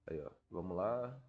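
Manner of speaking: blocked nose from a cold; stuffy nose. Real, not acted. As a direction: speak through a head cold. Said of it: "eu tô meio gripado". (nariz entupido de gripe)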